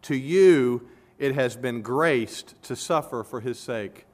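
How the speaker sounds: slow, deliberate weight on "To you"; emphatic "To you", falling away at the end; stress on TO YOU. Shown as a demonstration. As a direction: set "To you" apart with emphasis, then continue slowly. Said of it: "He's emphatic about this".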